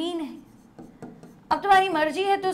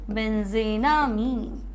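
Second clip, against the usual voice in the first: slow dictation; 4 semitones lower, much slower than usual. Real, not acted. Dictates the name while writing it.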